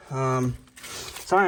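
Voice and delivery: breathless, catching his breath; winded after heavy lifting. Real, not acted. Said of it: "I'm kinda out of breath".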